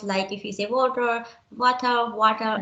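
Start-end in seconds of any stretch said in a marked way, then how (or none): 0.7-1.2 water with an r at the end, "WAW-ter"; differentiated pronunciation. Shown as a demonstration. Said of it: "find the differentiation of the words". 1.6-2.1 water with no final r, "WAW-tuh"; differentiated pronunciation. Shown as a demonstration. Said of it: "there is difference". 2.1-2.6 water with an open ending, "WAW-tah"; differentiated pronunciation. Shown as a demonstration. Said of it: "there is difference".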